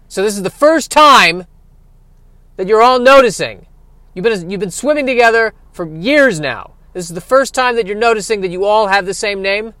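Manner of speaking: loud, high, exasperated disbelief; incredulous eel. Acted. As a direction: berate the school of fish.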